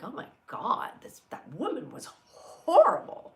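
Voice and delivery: high, loud mock complaint; retold grumbling. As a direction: imitate an outraged shopper, punching up HORRIBLE. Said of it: "she's grumbling and she's like".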